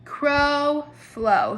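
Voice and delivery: teacher models a rhyming pair; rhyme demo. Shown as a demonstration. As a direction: crow up, flow down. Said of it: "your first two words is crow".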